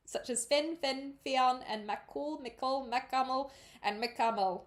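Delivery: amateur Irish reading of spellings; attempted Irish accent. Shown as a demonstration. Reader listing alternative spellings, amateur Irish accent. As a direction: keep up the put-on Irish. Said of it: "read that page in my best Irish attempt".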